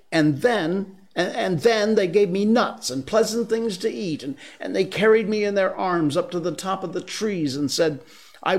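put-on a boy rushing to boast of new friends; excited man cub. Mowgli's boastful tale.

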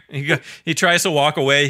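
ordinary talk

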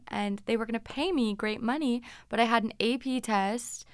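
normal talking voice

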